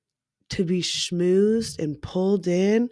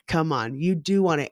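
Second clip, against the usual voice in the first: imitating coaxing man; 3 semitones lower, 3 dB quieter than usual. Imitating the man's pushback.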